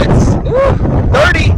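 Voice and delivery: high excited yelp at a gust; excited shout. Real, not acted. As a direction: shout the reading out, thrilled. Excited at a strong wind gust.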